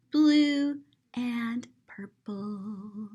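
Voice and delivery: hushed, awed whisper. Real, not acted. Reading a picture book to children, whispering. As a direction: breathe the last colours out in a whisper.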